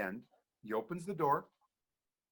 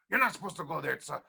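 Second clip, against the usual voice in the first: put-on Hawaiian pidgin accent; 3 semitones higher, 3 dB louder than usual. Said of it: "in Hawaii, they talk like this".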